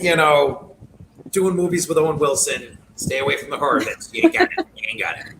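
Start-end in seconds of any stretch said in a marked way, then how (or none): 4.1-4.7 high, sing-song jab; mock taunt. Telling a remake actor he can't do horror, high mock taunt. 4.8-5.3 dropped low and soft, a deadpan verdict. Pretend. Repeating the verdict to the actor, low and soft deadpan. Teasing an actor about horror roles.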